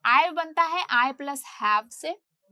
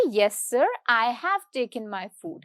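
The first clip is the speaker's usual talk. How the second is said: slow, careful full form "I have taken my food"; formal answer; 3 semitones lower, much slower than usual. Shown as a demonstration. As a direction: answer the boss properly, every word said. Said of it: "मतलब मैं बहुत ही formally जवाब दूंगी".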